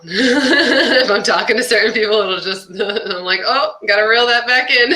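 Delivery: laughing through the line. Real, not acted. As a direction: giggle as you say it. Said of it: "the accent will come out".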